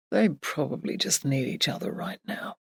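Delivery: soft, gentle reassurance; kindly. A narrator's reading. Jake consoles Emily about their friends, kindly. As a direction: soften right down to comfort her. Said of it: "he said kindly".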